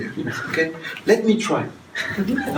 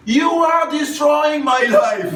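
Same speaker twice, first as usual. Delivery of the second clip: higher, loud, slow wailed accusation; overdone accusing shout; 11 semitones higher, 5 dB louder than usual. Shown as a demonstration. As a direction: hurl the blame in a big overacted cry. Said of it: "is if you say".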